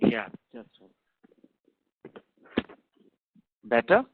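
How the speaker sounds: speaking up into the handset. Real, not acted. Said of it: "Could you speak a bit louder?".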